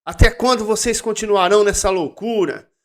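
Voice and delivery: crying out loud. Acted. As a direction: cry out to the crowd in reproach. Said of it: "Ela está gritando alto assim".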